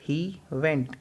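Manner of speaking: very slow, stretched word by word; slow drill. Shown as a demonstration. Teacher slowly modelling the answer for students. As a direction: spell it out slowly for beginners. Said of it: "fast बोलना है इसको".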